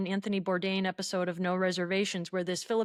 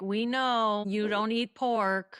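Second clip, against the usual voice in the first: knowing tone; slower than usual. Retold or imitated. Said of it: "are they saying it in a way".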